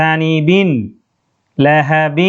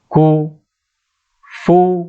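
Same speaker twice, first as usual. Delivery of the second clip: slow spelled reading; much slower than usual. Shown as a demonstration. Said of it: "وقف كفوا".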